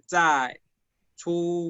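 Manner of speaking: "Zai, zu" with ds-like onsets, no puff; buzzy z starting "Zai" and "zu"; unaspirated Z. Shown as a demonstration. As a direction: model "Zai" and "zu" one at a time. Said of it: "Así se escucha esta letra".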